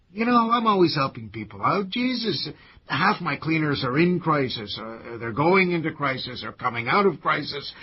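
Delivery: exasperated, peaking high and loud; defensive protest. Acted. Cleaner defends taking in a lodger, exasperated. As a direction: justify yourself, insisting at the end.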